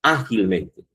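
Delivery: "ágilmente" with a firm ÁG at the start; teacher's example "ágilmente", stressed on Á; stress on first syllable. Shown as a demonstration. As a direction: hit the Á of "ágilmente", then fall away. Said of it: "la tónica es la ante de la antepenúltima".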